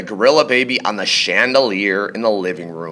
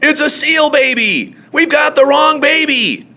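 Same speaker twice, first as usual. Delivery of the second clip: high, louder alarmed cry; panicked shout; 3 dB louder than usual. A narrator's reading. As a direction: blurt it out in alarm. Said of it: "He yelled".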